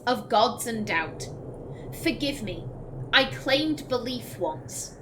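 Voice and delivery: grave, measured recital; dramatic codex reading. Acted. Streamer voices a doubting believer's letter, solemn. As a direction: read it like a troubled believer's letter. Reads codex entry aloud.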